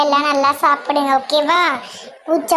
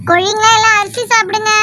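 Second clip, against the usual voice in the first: higher sing-song call to the hens; calling chickens; 6 semitones higher than usual. Acted. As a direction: coax the chickens to eat. Boy calls the chickens.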